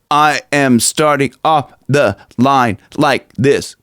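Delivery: measured words from a closed throat. Shown as a demonstration. Coach demonstrating how Corey starts a line, closed-off throat. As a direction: talk through a closed-off throat, pushing air out. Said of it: "closed off throat".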